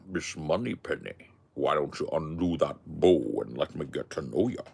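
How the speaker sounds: low put-on spy voice, flirting; suave spy impression. Bond flirting with Moneypenny impression.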